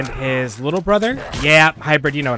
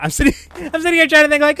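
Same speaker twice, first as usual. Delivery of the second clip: laughing; 13 semitones higher, 7 dB louder, much faster than usual. Real, not acted. Laughing at himself.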